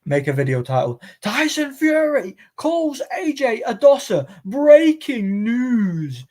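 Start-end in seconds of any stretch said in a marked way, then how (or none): 1.2-6.2 much higher, slow hyped headline voice; mock clickbait announcer. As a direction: sell the title like breaking news. Mock clickbait video title.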